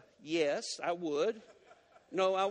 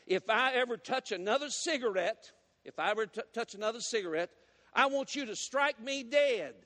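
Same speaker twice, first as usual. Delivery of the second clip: fervent vow; 4 semitones higher than usual. Acted. Deacon vowing to God before the deacons, fervent and rising. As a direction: swear it, rising to the climax.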